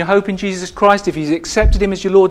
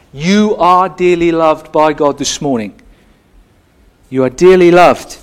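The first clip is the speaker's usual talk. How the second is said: tender reassurance; 4 dB louder than usual. Acted. Preaches assurance to congregation.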